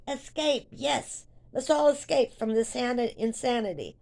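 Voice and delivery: high-pitched mock rallying cry; retold gleeful call to escape; playful rallying. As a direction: egg everyone on, joking. Retelling staff joining her escape joke.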